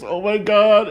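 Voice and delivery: high, loud mock dismay; mock horrified. Man walks in as she watches the video, mock horrified. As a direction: cry out in exaggerated horror. Retold horrified reaction to discovery.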